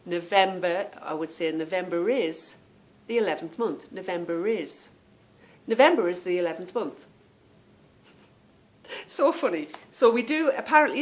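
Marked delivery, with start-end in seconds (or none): 1.5-2.6 "November is" said as "Novemba ris"; linking R. Shown as a demonstration. Example for viewers, "November is" linked by R. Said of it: "we add the R to the beginning". 3.9-7.1 "November is" run together as "Novemba ris"; linking R. Shown as a demonstration. Showing viewers her habit, "November is" joined by R. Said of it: "we add the R to the beginning".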